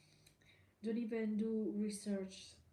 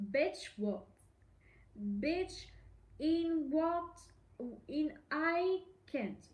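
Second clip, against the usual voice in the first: higher, louder disbelieving exclamation; shocked outrage; 6 semitones higher, 3 dB louder, slower than usual. Real, not acted. Vlogger reacts to a Reddit post, shocked and higher. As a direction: react as if you can't believe it.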